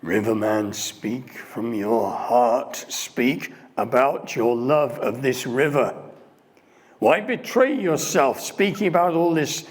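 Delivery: loud, slow, intense pleading; passionate heckler. Retold or imitated. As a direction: urge him to speak from the heart. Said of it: "the voice says".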